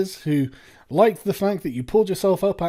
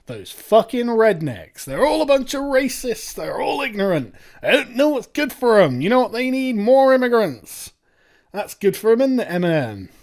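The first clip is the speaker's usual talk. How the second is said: mock self-righteous sneer; 5 semitones higher than usual. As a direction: ham up the disdain for rednecks. Mocking a rapper's view of rednecks.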